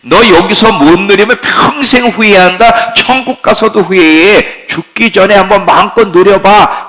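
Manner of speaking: preacher voices the world luring believers, pushy. Acted. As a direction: urge them to enjoy everything now. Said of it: "세상에 계속 소리를 쳐요".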